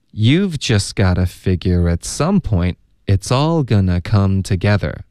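slowish, connected teacher's reading; moderately slow model. Shown as a demonstration. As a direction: read slowly but in one linked flow. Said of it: "那还要请老师多读几遍".

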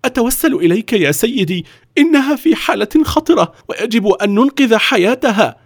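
high, urgent pleading; young Gandhi imploring. Acted. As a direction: beg the director to save her. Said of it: "في توسل".

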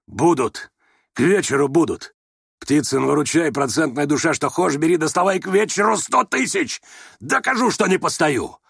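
excitement climbing to a high-pitched peak; carried away, ecstatic. A narrator's reading. Rogozhin vowing to bring the money, mounting elation. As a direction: build from firm vow to exalted cry. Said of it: "Одушевился вдруг до восторга Рогожин".

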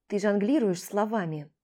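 usual speaking voice

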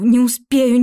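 rising panic on "не успею"; panicked. A narrator's reading. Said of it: "thought while running".

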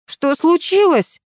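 two women jumping up, alarmed; alarmed exclamation. A narrator's reading. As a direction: call out in alarm together. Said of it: "хором воскликнули".

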